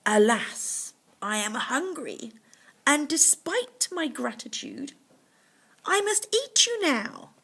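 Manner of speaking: hammed-up hungry tiger; menacing tiger. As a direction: build to the threat of eating him. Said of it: "said Mountain Uncle".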